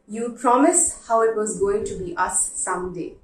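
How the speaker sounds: letter reading. Acted. Reads a heartfelt letter aloud.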